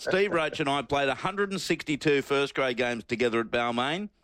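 reading aloud. Shown as a demonstration. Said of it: "and you start".

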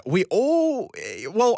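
ordinary delivery

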